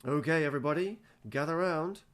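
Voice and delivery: chirpy coaches singing out to the team; bouncy sing-song rallying call. Acted. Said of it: "in a sing-song voice".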